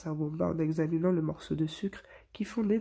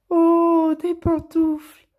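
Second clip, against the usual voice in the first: exclamation joyeuse, bien plus haute et plus forte; ravi, s'étire lentement sur les pantoufles; gaiement; 11 semitones higher, 12 dB louder, much slower than usual. A narrator's reading. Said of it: "Puis gaiement". (ton joyeux, aigu et ralenti)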